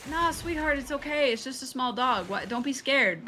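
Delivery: sweet mock reassurance to a toddler; soothing parent. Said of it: "I was expecting to be like".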